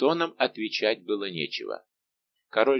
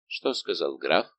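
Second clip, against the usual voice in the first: careless; 5 semitones lower, slower than usual. A narrator's reading. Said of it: "он небрежно бросил".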